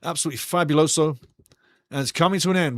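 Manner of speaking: ordinary talk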